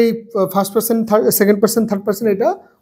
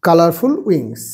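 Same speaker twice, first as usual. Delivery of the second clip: A butterfly has colorful wings, lower, softer, spelling C O L O U R; slow dictation with spelling; 6 semitones lower, 4 dB quieter, much slower than usual. Shown as a demonstration. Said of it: "উত্তর কি হবে". (ধীরে বানান করে লেখানো)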